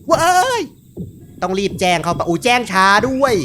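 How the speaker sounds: high shriek, then loud frantic wail; loud, high-pitched panic, last words stretched out; panicked yelling. Real, not acted. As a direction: scream it as the scare hits, pitch climbing. Panics at jump scare in game.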